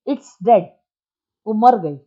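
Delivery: loud curt snap; angry retort. Acted. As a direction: bite it off in anger. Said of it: "चतुर्भुज तो था गुस्से में".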